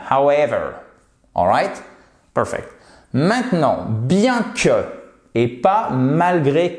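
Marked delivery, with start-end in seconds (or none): 0.1-0.7 "However" with the main push on EV; light start on "However", then hit EV and fall; stress on second syllable. Shown as a demonstration. Teacher explaining the tonic accent, stress on second syllable. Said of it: "la vraie impulsion sur la seconde syllabe".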